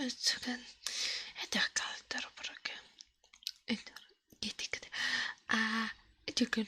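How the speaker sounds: hushed storytelling in a gibberish tongue; ASMR whisper. Acted. Streamer telling viewers a story in an invented language, whispered.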